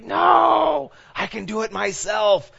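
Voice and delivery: put-on high, loud little-kid protest; Josie Miller. Preacher imitating a little kid refusing help, mock shout. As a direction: imitate a stubborn child shouting off any help, voice way up. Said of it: "little Josie Miller".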